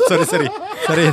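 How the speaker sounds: words stretched by a yawn. Real, not acted. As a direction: talk through a yawn. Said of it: "sorry nguap-nguap biasa".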